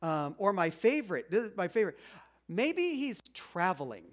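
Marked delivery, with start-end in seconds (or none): 2.5-4.0 slow, teasing trash talk; mock taunt. Elijah trash talking the prophets of Baal, mock taunting. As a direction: taunt them with a drawn-out suggestion. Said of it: "it's just trash talking".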